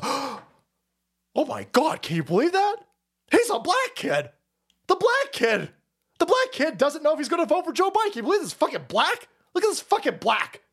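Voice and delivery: high, hammed-up scandalised newsreader voice; mock a shocked CNN anchor, pitched high; mock outraged anchor. Mocking a CNN anchor shocked by a black voter, high hammed-up outrage. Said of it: "And C N N goes".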